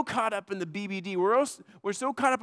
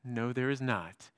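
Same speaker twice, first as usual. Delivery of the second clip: smiling reply; 8 semitones lower, 5 dB quieter, slower than usual. Retold or imitated. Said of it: "And I smiled and said".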